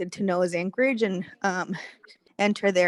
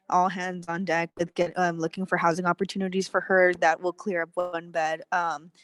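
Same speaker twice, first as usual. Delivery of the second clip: out of breath. Real, not acted. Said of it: "sorry, I'm out of breath. I just came up the stairs".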